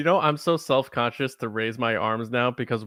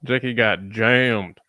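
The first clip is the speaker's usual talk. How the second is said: slow, lower Arnold accent, a fair imitation; good Arnold impression; 5 semitones lower, slower than usual. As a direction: drag it out deep like Arnold. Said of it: "that is actually a very good Arnold".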